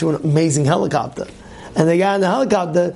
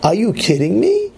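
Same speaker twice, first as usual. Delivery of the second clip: exasperated; 4 semitones higher than usual. Retold or imitated. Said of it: "He says".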